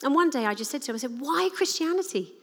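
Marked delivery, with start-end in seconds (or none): 1.2-2.3 lightly voiced teenager, higher; a hint of a pushy teen challenging; teenagery. Teenage son challenging his mum, lightly mocked. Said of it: "in a very, um, teenagery way".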